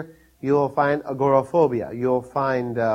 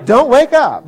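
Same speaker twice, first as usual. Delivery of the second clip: laughing mock plea; 10 semitones higher, 9 dB louder, slower than usual. Retold own words to snake.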